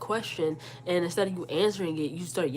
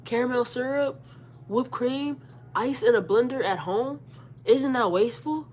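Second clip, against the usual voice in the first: higher, drawn-out questioning, item by item; pointed argument; 4 semitones higher, slower than usual. Retold or imitated. Daughter imagines challenging her mother's logic, pointed and deliberate. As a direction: lay out the case with leading pauses.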